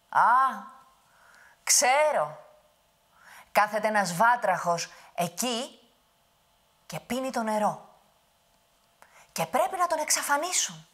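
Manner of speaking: high, loud big voice; giant explaining. Acted. Giant reveals the secret, loud and high. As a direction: boom out the answer.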